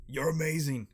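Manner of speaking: mock fan shout-out; gushing praise. Fan calling out to the actor.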